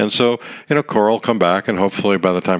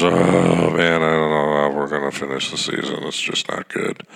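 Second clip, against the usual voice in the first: imitating Manfred; 4 semitones lower than usual. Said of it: "comes out and goes".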